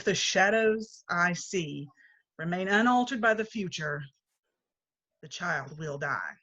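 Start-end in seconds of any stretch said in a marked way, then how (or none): 5.2-6.4 grave hush. Acted. Spirit foretelling Tim's death.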